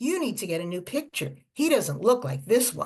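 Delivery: mock-nasty, put-on voice. Retelling what a TSA agent said to her, imitating a nasty TSA agent. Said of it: "in a really nasty voice".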